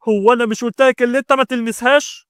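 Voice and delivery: high, loud angry challenge; furious rebuke. A narrator's reading. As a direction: warn off someone who crossed the line. Brother confronts demon inside him.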